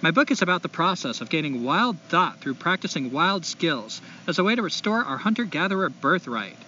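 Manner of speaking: put-on light SoCal accent reading a letter; California accent. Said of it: "I'm gonna try to do a California accent".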